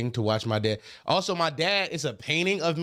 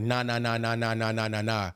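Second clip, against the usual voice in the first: lightly voiced dad, lower pitch; 5 semitones lower than usual. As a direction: imitate a dad giving critique, a bit lower. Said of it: "He was like".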